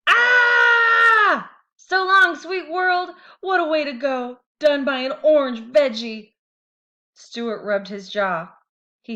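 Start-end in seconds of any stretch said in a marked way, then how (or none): 0.1-6.3 very high, loud melodramatic farewell; dramatic dying tooth. A narrator's reading. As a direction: ham up a doomed death speech. Tooth's dramatic death cry.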